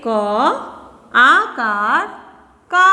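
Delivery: very slow, drawn-out क आकार; teacher spelling it out slowly. Shown as a demonstration. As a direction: stretch each sound for the class. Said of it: "इसे पढ़ेंगे".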